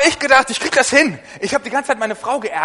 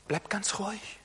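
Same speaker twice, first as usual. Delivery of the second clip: hushed mock warning; 14 dB quieter than usual. Critic voice telling David calm.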